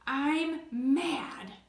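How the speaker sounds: acted, mildly angry statement; mad. Teacher acts someone in the red zone, mad. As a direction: play mad with punched words. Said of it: "and they say".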